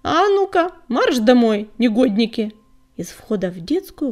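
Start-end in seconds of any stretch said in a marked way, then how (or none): 0.0-2.5 calling out. Acted. Mother cat calls kits home.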